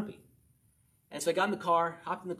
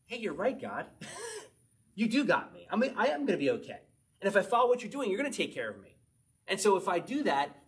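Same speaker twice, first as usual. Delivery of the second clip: relieved realization; 3 semitones higher than usual. Retold or imitated. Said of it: "the more you realize".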